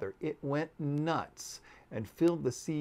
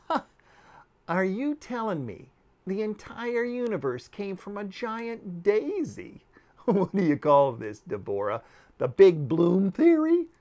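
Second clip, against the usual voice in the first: higher, loud scoffing ridicule; mocking laugh; 6 semitones higher, 7 dB louder than usual. Niyuki scoffing at Deborah's story, loud and mocking.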